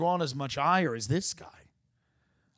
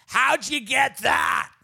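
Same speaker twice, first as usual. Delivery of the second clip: sudden, slow, high shout; surprised shout; 13 semitones higher, 9 dB louder, much slower than usual. Real, not acted. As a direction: blurt it out in real surprise. Sudden outburst mid-conversation.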